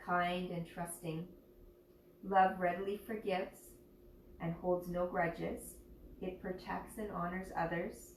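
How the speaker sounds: slow, measured reading with pauses between phrases; reflective reading. Acted. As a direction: read it out gently, phrase by phrase. Reads a passage aloud.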